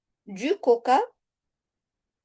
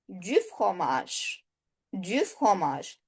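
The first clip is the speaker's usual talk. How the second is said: slow model; 4 semitones lower, 7 dB quieter than usual. Shown as a demonstration. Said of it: "teacher models the partitive".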